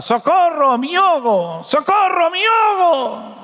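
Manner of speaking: high, drawn-out cry for help; hammed-up high wail of a drowning child; mock drowning cries. Drowning boy in a fable calls out, high mock cries. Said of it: "y gritaba".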